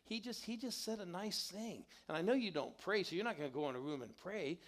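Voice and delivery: lightly voiced wife chiding her husband. Wife Karen scolds husband Mike.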